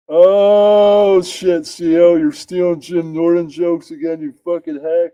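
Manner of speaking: high, loud mocking friend; friend's voice. Friend calling out joke theft, mocking. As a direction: jab at him like a rival comic. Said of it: "Then he was like".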